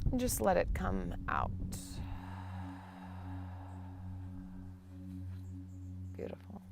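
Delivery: unhurried meditation guide with long pauses; guided meditation. Real, not acted. Teacher guiding listeners into the breath, guided meditation. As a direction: lead them gently through each breath.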